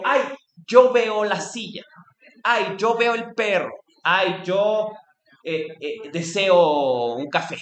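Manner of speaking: drawn-out "ay, yo veo", savoring the self; hamming up a self-centered observer; mock self-absorbed musing. Philosophy teacher mocking a self-centered observer, slow and drawn out. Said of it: "nunca digo".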